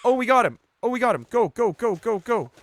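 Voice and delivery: high, loud whoops of triumph; excited shout. Real, not acted. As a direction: cheer like you just won. Catching the rabbit.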